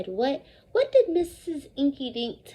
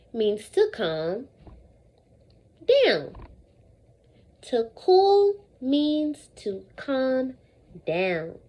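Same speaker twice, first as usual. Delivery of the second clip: calm slow modelling; slower than usual. Shown as a demonstration. Teacher showing the class how to calm down. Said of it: "First I say, then you say".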